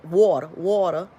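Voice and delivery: slow, loud New York "water, water"; New York accent. Shown as a demonstration. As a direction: stretch "water" like an amateur New Yorker. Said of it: "I don't know how to do the New Yorkin".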